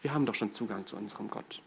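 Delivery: a hint of haughty protest; proud Pharisees. Preacher voices the Pharisees rejecting Jesus, mildly indignant. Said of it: "Da betonen die Pharisäer".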